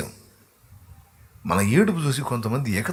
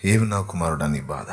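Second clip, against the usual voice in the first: God's gentle voice; 4 semitones lower than usual. Acted. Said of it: "అంట".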